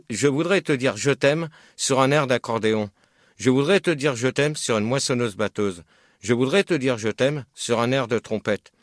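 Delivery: poème récité. Shown as a demonstration. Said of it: "je vais vous lire des poèmes".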